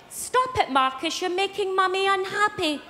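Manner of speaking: lightly mocked mother chiding her child; imitated London mother. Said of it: "And she said".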